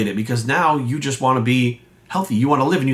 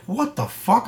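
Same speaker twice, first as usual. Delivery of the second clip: pitched way up in mock outrage; shocked disbelief; 9 semitones higher, slower than usual. Gym buyer hearing fifty-two sessions, pitched-up shock. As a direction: squeak it out, stunned. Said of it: "I was like".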